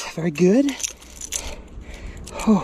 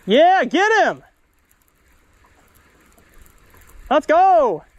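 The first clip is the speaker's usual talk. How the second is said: excited cheering; 9 semitones higher, slower than usual. Real, not acted. Cheering while fishing.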